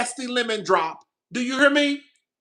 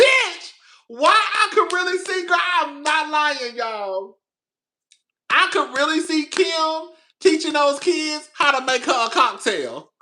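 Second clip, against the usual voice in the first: 1 excited retold yell; 5 semitones higher than usual. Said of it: "And I said".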